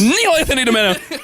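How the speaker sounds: high called-out full name; yelled full name. Shown as a demonstration. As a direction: shout the full name on the swing. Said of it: "Full name".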